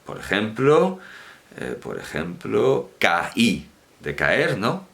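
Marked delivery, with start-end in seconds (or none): 3.0-3.7 "caí" split apart as ca-Í; "caí" syllable by syllable; two syllables. Shown as a demonstration. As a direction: say "caí" with a clear break before the stressed í. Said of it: "Dos sílabas".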